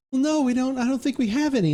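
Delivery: farm wife voice. Retold or imitated. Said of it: "And she's like".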